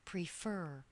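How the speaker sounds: "Prefer" as pre-FER, weight on FER; stress on second syllable. Shown as a demonstration. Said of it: "Stress is on the second syllable".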